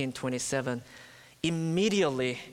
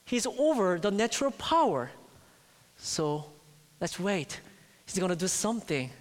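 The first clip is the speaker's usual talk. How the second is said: disciples' hopeful thought; 6 semitones higher, faster than usual. Retold or imitated. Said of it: "So they must have thought".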